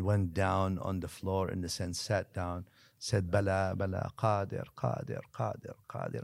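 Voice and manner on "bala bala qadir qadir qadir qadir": tearful. Retold or imitated. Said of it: "and started weeping".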